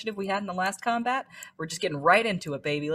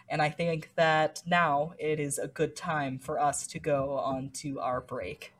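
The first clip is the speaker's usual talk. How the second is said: over enunciating. Shown as a demonstration. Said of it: "I say as slowly as possible".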